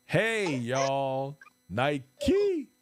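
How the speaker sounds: high, loud happy hello; excited high welcome shout; excited greeting. Real, not acted. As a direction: call out to a friend you're thrilled to see. Greeting guests joining live.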